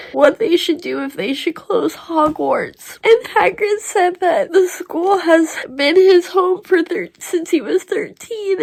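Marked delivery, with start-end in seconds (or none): 3.0-8.6 teary. Real, not acted. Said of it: "I can't believe I'm crying so much".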